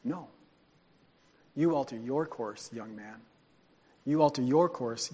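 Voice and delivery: God quietly correcting the people. Acted. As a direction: gently correct the listener. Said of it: "God says".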